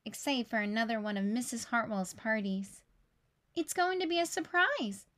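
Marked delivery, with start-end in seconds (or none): 3.5-5.1 a touch higher, playful teacher tone; teasing teacher. Acted. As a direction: tease the kids lightly. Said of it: "she told them".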